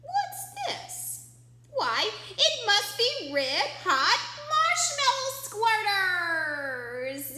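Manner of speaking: high, loud amazed discovery; the grocer suddenly gets it, delighted; surprised grocer. Acted. Grocer guesses the picture.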